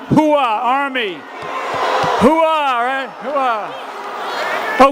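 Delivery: loud gung-ho soldier. Real, not acted. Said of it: "that's Marine Corps".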